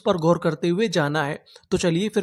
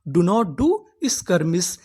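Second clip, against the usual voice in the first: very slow, each word separate; slow teaching demo; 3 semitones lower, much slower than usual. Shown as a demonstration. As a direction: model the sentence slowly for learners. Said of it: "English में कैसे बोल सकते हैं".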